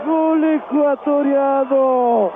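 goal shout. Real, not acted. Goal celebration call.

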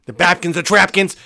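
lightly imitated winded rap, laughing through it; a touch of a gasping rapper rhyming nonsense; mock breathless rapper. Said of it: "look how out of breath he is".

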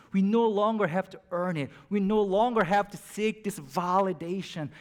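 fervent preaching. Real, not acted. The preacher proclaims freedom to the congregation, fervently. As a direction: proclaim it with conviction.

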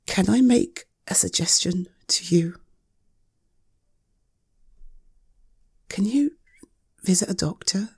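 hushed and careful, as if afraid to upset her; gentle whisper. Acted. Friend cautiously suggesting a doctor to a fragile friend, hushed whisper.

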